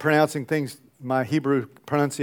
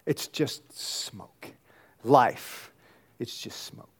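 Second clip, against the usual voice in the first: very soft, low, slow near-whisper; hushed; 6 semitones lower, 10 dB quieter, slower than usual. Real, not acted. Preacher shows the congregation how fleeting life is, hushed near-whisper. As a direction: let it fade away like smoke. Illustrates life as vanishing smoke.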